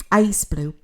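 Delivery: hiccuping mid-sentence; a small hiccup breaks the words. Real, not acted. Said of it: "I've got the hiccups".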